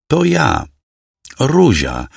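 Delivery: wyżej, z lekkim drżeniem strachu; drżący głos. Acted. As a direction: przestraszona dziewczyna prosi o litość, delikatnie. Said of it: "powiedziała drżącym głosem". (Ruzia przypomina kuzynowi, kim jest, drżącym głosem)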